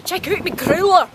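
cheeky line in a light Scottish accent; a hint of Scottish brogue, laughing. Shown as a demonstration. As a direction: roll it out Scottish for the joke. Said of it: "You have to say it in a Scottish accent though".

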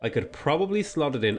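hiccupping mid-sentence; words broken by hiccups. Real, not acted. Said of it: "excuse me, I have the hiccups".

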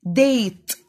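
"date" in one long, firm beat; teacher modelling "date" as one syllable. Shown as a demonstration. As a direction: say "date" in a single go. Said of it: "مرة واحدة".

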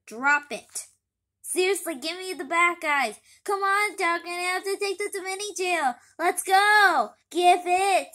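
loud, high tug-of-war shouting; bossy demands. Acted. Pity demands Dogman give up the bat, loud and high. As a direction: yell at Dogman to hand it over. Kids squabbling over the bat.

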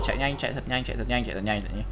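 low, soft fast chant; frantic mutter. Real, not acted. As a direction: whisper urgently to run. Fleeing, muttering. (lẩm bẩm gấp gáp)

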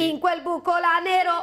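high, emphatic pilot voice; alien pilot announcing. Acted. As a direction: call out the target over the panic. Pilot answers the panicked bear.

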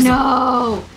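drawn-out rising wail of no; panicked protest. Real, not acted. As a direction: cry out in alarm at the enemy. Ruin Guard appears.

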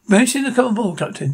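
lightly voiced captain in a put-on deep tone. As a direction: drop the voice a bit for the captain. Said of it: "deep voice".

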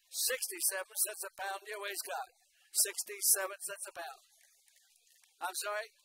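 ordinary delivery

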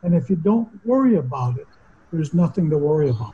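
lightly voiced mother settling him down; calm mother. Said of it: "And calmly she said".

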